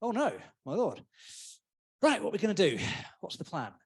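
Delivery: dry sarcastic mock worry; deadpan sarcastic lord; heavy sarcasm. Shown as a demonstration. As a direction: say it with an eye-roll. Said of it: "it could be heavy sarcasm".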